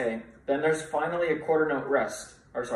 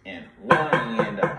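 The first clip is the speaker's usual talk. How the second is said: louder count with the class; louder group count; counting along; 2 semitones lower, 4 dB louder than usual. Shown as a demonstration. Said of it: "Again, ready, and go".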